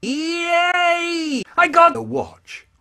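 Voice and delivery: put-on excited child. Boy thrilled by his new watch, high squeal. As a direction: squeal like a delighted kid.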